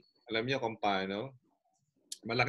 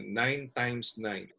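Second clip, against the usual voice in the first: slow reading; 5 dB quieter, much slower than usual. Retold or imitated. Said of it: "lalagay niya".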